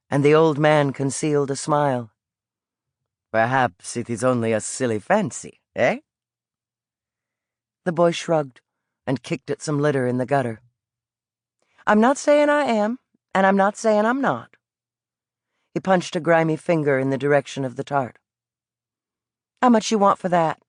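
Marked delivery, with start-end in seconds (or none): 3.3-6.0 put-on old street vendor with an Italian lilt, calling out. Old vendor coaxing the boy toward his pastry cart, Italian accent. 11.9-14.6 higher, cagey Southern voice; evasive Southern boy. Acted. Boy dodges question. 19.6-20.6 higher, cagey Southern voice; evasive Southern boy. Acted. Boy asks price.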